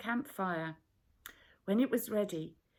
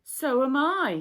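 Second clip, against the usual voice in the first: heated retort; 6 semitones higher, 11 dB louder than usual. A narrator's reading. Quarrel over food shares.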